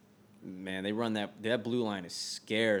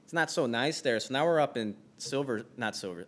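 put-on Midwest accent; 4 semitones higher, 4 dB louder than usual. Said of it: "It's me, Midwestern Bob".

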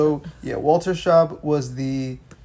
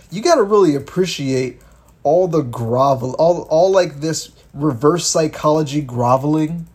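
louder rant; 6 dB louder than usual. Real, not acted. Ranting about politicians.

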